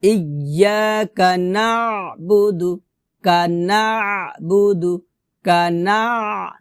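measured chanting for students to repeat; Quran recitation demo. Shown as a demonstration. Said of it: "আবারও বলি".

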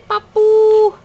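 put-on high sing-song word for baby; cooing first-word prompt; high coaxing prompt. Shown as a demonstration. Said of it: "Parang say".

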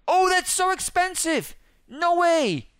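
high, outraged disbelief; shocked at price. Real, not acted. Player shocked by the car skin prices, high disbelief. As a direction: gasp at the cost.

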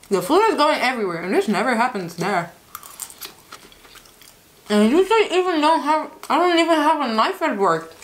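chewing while talking; talking between bites of salad; mouth full. Real, not acted. Seen 3: Forkfuls of salad go into her mouth; she chews while talking.

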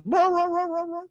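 high, loud yowling roar like a hurt dog; dog howling. Retold or imitated. Dog on the porch howls in pain, high loud yowl. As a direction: howl it way up high, like the dog sitting on a nail. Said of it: "dog again goes".

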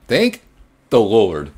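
loud, pitch jumping up on thank; relieved exclamation. Real, not acted. Player surviving the night shift, loud relieved cry. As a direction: burst out with relief.

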